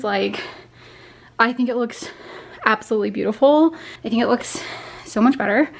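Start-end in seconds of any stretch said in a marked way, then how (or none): 1.4-5.7 panting between phrases; breathless after moving furniture; out of breath. Real, not acted. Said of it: "I'm so out of breath".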